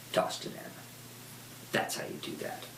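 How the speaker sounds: breathy whisper, no voice at all; whispered aside. Real, not acted. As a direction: whisper it like a secret tip. Aside after tossing coin.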